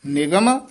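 ਨਿਗਮ with a brief held pause after it; short pause; brief hold on ਨਿਗਮ. Shown as a demonstration. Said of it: "ਇੱਥੇ ਯਮਕ ਹੈ".

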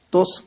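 ਤੁਸ with a tight, pressed s; tightly pronounced. Shown as a demonstration. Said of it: "ਕਸ ਕੇ ਉਚਾਰਨ ਕਰਨਾ ਹੈ". (ਤੁਸ ਕੱਸ ਕੇ ਉਚਾਰੋ)

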